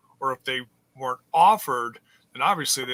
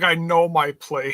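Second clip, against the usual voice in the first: mock demure quote; 3 semitones higher, 6 dB louder than usual. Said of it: "she's like".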